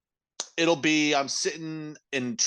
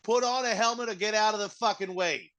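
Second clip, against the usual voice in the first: a Boston, Philly and New York blend; mock East Coast accent, vaguely Italian; mixed East Coast accent; 6 semitones higher, 5 dB louder, slower than usual. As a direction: lean on drawn-out vowels, East Coast tough. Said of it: "what accent that one was supposed to be".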